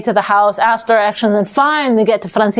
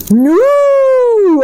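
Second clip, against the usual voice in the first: shouted refusal; 14 semitones higher, 4 dB louder than usual. Acted. Death refusing from tree.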